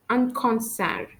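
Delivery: French "concert" with the final T silent. Shown as a demonstration. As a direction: end "concert" on the R, no T. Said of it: "I don't pronounce the letters D and T".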